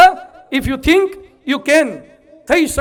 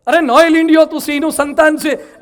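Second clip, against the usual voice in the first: lion scolding; 2 semitones higher, 3 dB louder than usual. Acted.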